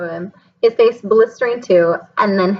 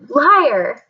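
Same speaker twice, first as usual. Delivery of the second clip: shout; 5 semitones higher than usual. A narrator's reading. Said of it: "Harry shouted suddenly".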